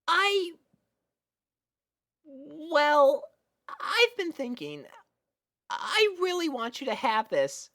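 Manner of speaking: put-on nervous little girl offering a present; shy high filly voice. A narrator's reading. Sweetie Belle shyly giving Spike a gift, high and hesitant.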